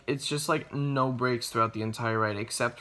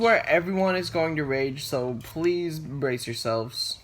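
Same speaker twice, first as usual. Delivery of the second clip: dramatic warning; 5 semitones higher, 4 dB louder than usual. Acted.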